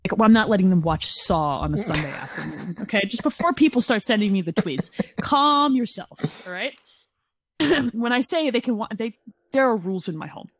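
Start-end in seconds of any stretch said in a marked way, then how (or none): 5.2-6.7 slow mock soothing. Real, not acted. Addressing audience, warding off tweets.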